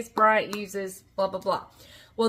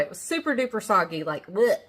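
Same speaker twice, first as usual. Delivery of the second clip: queasy disgust. Real, not acted. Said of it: "getting a little queasy".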